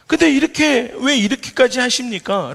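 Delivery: high, loud desperate plea; crying out to God. Retold or imitated. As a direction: demand an answer from God. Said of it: "라고 하나님께 부르짖습니다". (하나님께 높고 크게 부르짖으며)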